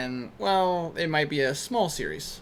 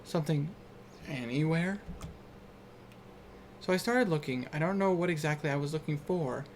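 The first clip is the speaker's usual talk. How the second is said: story narration; 9 dB quieter than usual. Acted. Reading a game's opening about darkness aloud, soft narration. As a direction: read it hushed and measured, softly.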